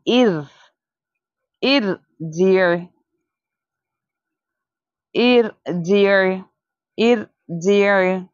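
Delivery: इर and जिर slow, with a thin, light र; thin ra recitation. Shown as a demonstration. Teacher reciting for pupils after naming the mistake. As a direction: recite इर, जिर slowly with a fine र. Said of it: "इव नहीं बोलेंगे, बल्कि क्या बोलेंगे".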